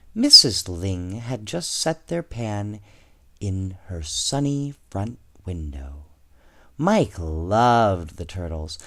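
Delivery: put-on reading a picture book to children; children's storybook read-aloud; story narration. A narrator's reading. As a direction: tell it gently like storytime. Reads second story aloud.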